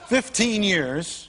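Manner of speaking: very slow, laughing; drawn out with a laugh; chuckling, stretched out. Real, not acted. Laughing answer.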